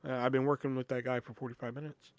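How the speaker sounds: soft, discreet aside to a coworker; hushed objection. Retold or imitated. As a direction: protest under your breath, sincerely. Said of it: "I kinda whispered to her".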